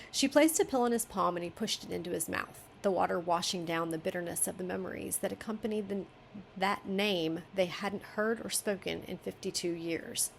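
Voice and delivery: steady reading, slowing at the end; story narration. Acted. Editor reading the author's chapter aloud, story narration.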